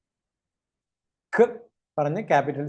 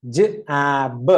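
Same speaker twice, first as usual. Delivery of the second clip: sounds run closely together; faster blending; 2 semitones lower, 3 dB louder, much slower than usual. Shown as a demonstration. Teacher speeds it up for learners, sounds closer. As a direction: move quickly from one sound to the next. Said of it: "ഇനി fast ആക്കി പറയാം".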